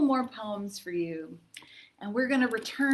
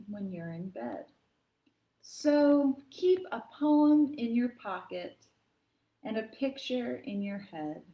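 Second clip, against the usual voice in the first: tender read-aloud; gentle poem reading. Acted. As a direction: read it like a bedtime rhyme.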